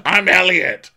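high, loud put-on voice; hammed-up alias introduction; silly disguise persona. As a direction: proclaim the fake name, high and loud. Voicing Ralph in silly disguises.

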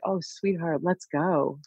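soft, gentle, coaxing sweetheart; softly reassuring her inner self; tender coaxing. Retold or imitated. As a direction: speak softly as to a loved child. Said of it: "now I'm like".

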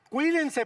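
insistent public appeal on cuídense; emphatic plea. Real, not acted. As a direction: plead it firmly, hitting the start of cuídense. Repeats the plea harder.

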